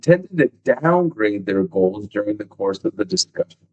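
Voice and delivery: book passage read out with firm emphasis on key words; steady read-aloud delivery. Real, not acted. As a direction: read the study out to listeners.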